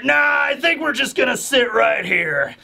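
squeezing in whether he likes it or not; menacing thug. Retold or imitated. Thugs voiced by retelling.

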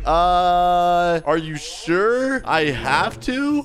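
stall, then ask very hesitantly; reluctant questioning. Acted. Patient asking doctor about undressing, reluctant questioning.

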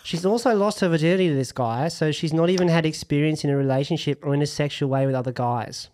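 lightly put-on, jokey Australian accent. Host reads listener Lara's question aloud, in a mock Australian accent. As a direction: read it like a bad Aussie impression. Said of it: "I'm gonna read it in my Australian accent".

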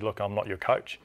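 lightly imitated French accent; Romain Poite. French referee answering players mid-game, lightly imitated French accent. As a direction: put a touch of French accent on it. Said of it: "in his French, French accent".

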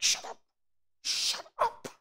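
loud, strained mock yell; exasperated mother. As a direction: snap like a fed-up mom silencing her kid. Exasperated mother yelling at screaming child.

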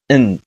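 "嗯" as a bare nasal n; mute consonant sound. Shown as a demonstration. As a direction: hum "嗯" with no vowel after it. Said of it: "它要发它的哑巴音".

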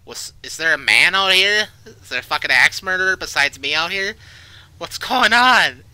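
high, loud call into the woods; alarmed yelling. Real, not acted. Player yells to whoever else is out here, alarmed. Calling to unseen person in woods.

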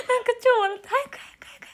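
high, loud words through laughter; laughing. Real, not acted. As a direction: blurt it out still cracking up. Still laughing, urging sister. (笑いながら高く大きな声で)

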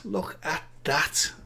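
slow hushed whisper; whispered wonder at the screen; awed whisper. Real, not acted. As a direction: breathe it out, slow and amazed. Marvelling at a new entry.

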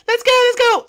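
high shouted hurry-up; high yell. Acted. Hurrying the crew, a high shouted order. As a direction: yell them into line. Captain yelling.

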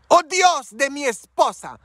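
put-on high, slow, pained cry of a dying old man; dying grandfather's prayer. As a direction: plead to God through the pain. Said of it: "yo lo escuché orando en su dolor".

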